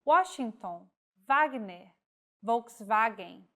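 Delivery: Washington with an English W, Wagner and Volkswagen with a V sound; W words as in origin. Shown as a demonstration. Teacher shows W words to learners, each W voiced as in its origin. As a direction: read each W as its home language says it. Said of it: "follows the pronunciation of the language of origin".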